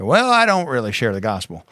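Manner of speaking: mock church lady with an accent; put-on lady's voice. Lady answering the pastor's question, in a put-on voice. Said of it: "She said".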